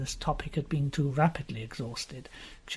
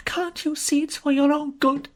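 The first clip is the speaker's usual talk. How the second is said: angry; 12 semitones higher, 4 dB louder than usual. Acted. Jean pleading furiously.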